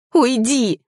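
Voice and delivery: hospital patient screams at her lover to leave; shouting. Acted. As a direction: shout him out of the room. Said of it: "закричала она".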